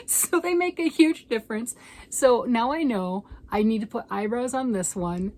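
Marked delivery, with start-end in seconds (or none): 0.1-1.7 emphatic punchline. Real, not acted. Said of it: "punchline of eyebrow story".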